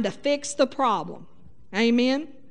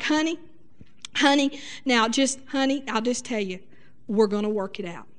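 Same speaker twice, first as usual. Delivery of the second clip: soothing husband; 3 semitones lower, 4 dB quieter than usual. Shown as a demonstration. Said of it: "you can say things like".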